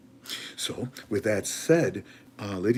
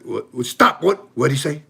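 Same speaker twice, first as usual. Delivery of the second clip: startled disbelief; 2 semitones higher, 8 dB louder than usual. Retold or imitated. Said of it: "and he's like".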